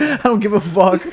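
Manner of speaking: high, careless put-on voice; careless instructor voice. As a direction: toss it off like you don't care. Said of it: "He's like".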